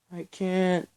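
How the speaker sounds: high, loud desperate cry; a sharp pleading scream. A narrator's reading. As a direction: throw the words out in panic. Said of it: "Belle screamed".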